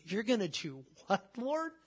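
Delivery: soft question leaping high at the end; acted amused disbelief. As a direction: play Abraham's hushed astonishment at God. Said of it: "he just cracks up and starts laughing".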